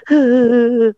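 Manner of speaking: short mock wail; brief put-on sob; demonstrated cry. Shown as a demonstration. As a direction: show how to fake a cry. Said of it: "nangis begini".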